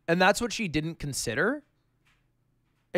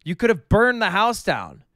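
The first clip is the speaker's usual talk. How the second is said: mock scolding in a raised pitch; pissed-off mom, retold; 3 semitones higher than usual. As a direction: imitate a mom telling someone off. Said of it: "And she was just pissed".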